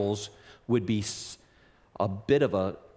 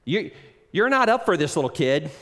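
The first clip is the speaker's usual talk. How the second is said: scornful, higher and louder taunt; mocking big brothers; 3 semitones higher, 5 dB louder than usual. Brothers taunting young David before Goliath, mocking. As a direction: sneer down at the little brother. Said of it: "his own brothers mocked his bravery".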